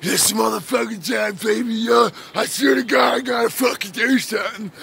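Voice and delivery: half-sung, hyped-up mock fury; mock worked-up rage. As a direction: act out someone talking himself into a fight. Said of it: "now you're like".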